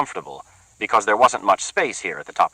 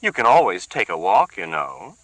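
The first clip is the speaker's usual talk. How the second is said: sarcastic; 2 semitones higher than usual. Acted. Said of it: "dripping with sarcasm".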